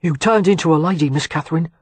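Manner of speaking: a hint of a South London accent, quick; lightly voiced cockney errand boy. A narrator's reading. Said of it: "in his thick South London accent".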